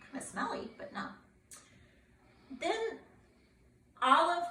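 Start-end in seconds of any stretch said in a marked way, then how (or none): 0.1-0.8 teasing whispered aside; playful whisper. Real, not acted. Teasing aside to listening child.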